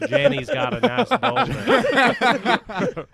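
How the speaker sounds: slow, drawn-out Southern simpleton impression; Forrest Gump. Friend mocks the donkey impression, turning it into Forrest Gump. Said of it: "sounds like Forrest Gump".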